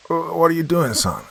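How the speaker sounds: high, halting question; startled stammer. A narrator's reading. Father wakes to his son standing over him, startled stammer.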